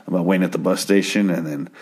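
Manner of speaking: imitating a checked-out man's shrug; casual, indifferent retelling; nonchalant. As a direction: toss it off as if nothing matters. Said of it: "amazingly nonchalant about everything".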